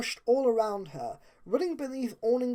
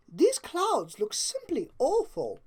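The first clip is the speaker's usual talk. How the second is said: slow, prim distaste; shuddering; 7 semitones higher, slower than usual. Acted. Rarity eyeing clouds, slow disdainful voice. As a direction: savour the word awful, slowly. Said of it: "looking up and shuddering".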